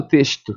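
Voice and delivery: "texto" said as "teshto"; hushing sh before the t in "texto"; "texto" with sh instead of s; rejected sh pronunciation. Shown as a demonstration. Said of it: "Não é assim que eu falo".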